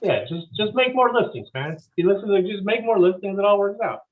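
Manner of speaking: high breezy bro advice; flippant bro voice. Pretend. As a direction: brush it all off like a bro.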